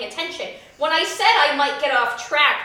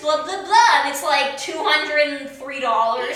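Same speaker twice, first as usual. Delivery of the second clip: salesy stylist. Retold or imitated. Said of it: "they're like".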